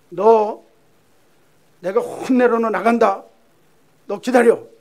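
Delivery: loud, high threatening shout; angry father. Acted. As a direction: warn your son at full volume. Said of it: "아버지가 화가 나가지고".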